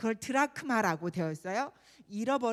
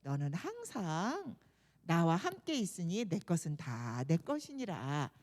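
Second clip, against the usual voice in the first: tender father; 5 semitones lower than usual. Acted. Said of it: "너무 불쌍하게 생각하면서".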